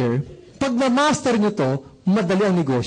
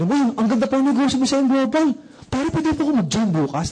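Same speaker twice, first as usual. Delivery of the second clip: higher-pitched, keen exclamation; excited prospect; 6 semitones higher than usual. Acted. Prospect asking the networker to let him join, excited. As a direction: gush like a newly won-over prospect.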